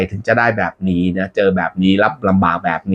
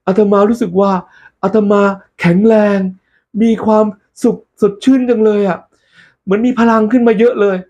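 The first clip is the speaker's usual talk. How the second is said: handsome voice; 9 semitones higher than usual. Acted. Monk feeling stronger, hammed-up heroic voice. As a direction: play the monk's new hero voice. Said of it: "เสียงหล่อขึ้นอย่างนี้น่ะ".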